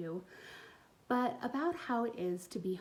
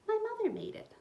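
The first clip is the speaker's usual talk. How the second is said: put-on proud child; 13 semitones higher than usual. Hazel proud reply.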